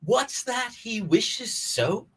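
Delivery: slow, theatrical royal declamation; a hint of a stage king, unhurried; Shakespearean king. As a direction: open Henry the Fifth's speech slowly and grandly. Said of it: "It is the Saint Crispin's Day monologue".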